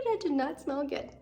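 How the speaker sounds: mock disgust. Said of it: "reacts to the diaper smell".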